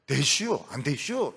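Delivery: lightly imitated Chungcheong accent; Chungcheong dialect. Shown as a demonstration. Preacher showing how Chungcheong people talk, in their dialect. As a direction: mimic a Chungcheong speaker's turn of phrase. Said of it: "이거 다 충청도 사람들이 하는".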